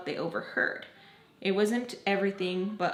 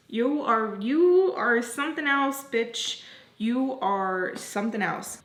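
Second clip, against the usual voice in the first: indignant; 2 semitones higher, 3 dB louder, slower than usual. Retold or imitated. Walking away from the friend, indignant. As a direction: lean hard on the repeated "you". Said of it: "I was really like".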